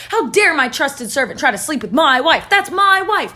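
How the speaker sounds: indignant, building to a high protest; pissed. Retold or imitated. Potiphar rages at his trusted servant, pissed. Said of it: "Potiphar was pissed".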